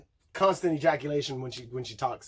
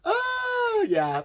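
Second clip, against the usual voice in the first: startled yelp; sudden shout. Real, not acted. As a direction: burst out. Sudden exclamation.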